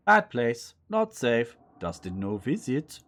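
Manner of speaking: put-on lightly accented creature voice; broken English in a vague foreign accent; possum with odd accent. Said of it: "I don't know why he's got an accent".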